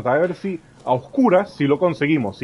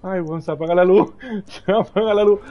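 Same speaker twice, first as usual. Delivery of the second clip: squeaky panic voice; 7 semitones higher, 5 dB louder than usual. Acted.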